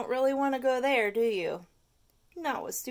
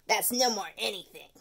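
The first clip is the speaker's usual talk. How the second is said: correcting. Acted. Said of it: "said the tooth".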